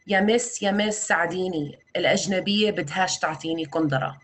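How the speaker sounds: a lightly voiced boy begging, quick Arabic; pleading refugee boy. A refugee boy begs the translator for shoes, in a quick light plea. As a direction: tug at her with a rushed plea, not a big voice change. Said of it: "an eleven-year-old tugs at my arm".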